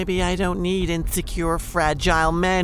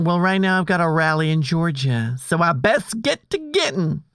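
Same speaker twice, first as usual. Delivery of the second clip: put-on Southern accent. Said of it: "changing your accent".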